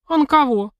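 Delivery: high, bright sincere surprise; sincere question. A narrator's reading. Sister asks in honest surprise why not him. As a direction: ask in genuine innocent wonder. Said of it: "совершенно искренне вопрошает это чудо".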